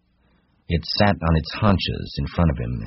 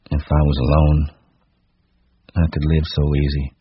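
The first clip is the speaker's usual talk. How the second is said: level, listless recital; wooden monotone. Acted. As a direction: recite woodenly, without emphasis. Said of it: "His voice was monotonous".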